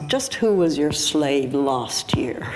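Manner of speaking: slow, mildly exasperated quote; fed-up mother. Retold or imitated. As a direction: lightly imitate a fed-up mother's rhetorical question. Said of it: "fully fed up".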